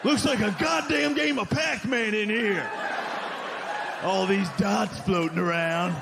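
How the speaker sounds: hammed-up bigot ranting; mock angry racist. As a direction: bark it like an angry bar regular. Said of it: "Nobody's ever like".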